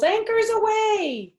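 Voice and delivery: a mild captain shout; captain's call. Acted. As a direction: call it out across the deck. Captain calls out.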